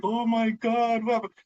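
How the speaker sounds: hammed-up sympathetic bystander; mock sympathetic gasp. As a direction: gasp like a fussing crowd. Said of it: "everybody in society is like".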